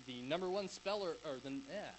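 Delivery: stumbling over the words; tongue-tied. Real, not acted. Conference speaker botching the talk outline, tongue-tied. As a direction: trip on a word and give up. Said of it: "I'm already getting tongue-tied".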